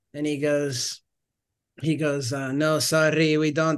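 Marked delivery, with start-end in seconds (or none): 2.5-3.8 heavy put-on Italian accent, laid on thick. Retelling an old restaurant owner turning down a job request: imitating a thick Italian accent. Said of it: "with a very thick Italian accent".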